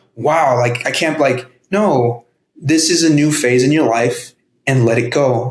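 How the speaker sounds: plain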